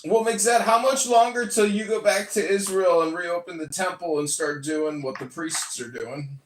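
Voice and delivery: raspy Three Stooges clown voice; rough, goofy clown rasp. Acted. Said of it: "why don't you just use your normal voice?".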